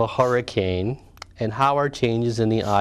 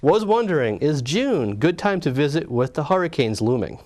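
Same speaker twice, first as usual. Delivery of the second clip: lightly hammed Russian accent, pitched up at the start; poor Russian accent; 2 semitones higher than usual. Co-host finishes Trevor's hurricane question, mock Russian accent. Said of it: "imagine me reading this with a Russian accent".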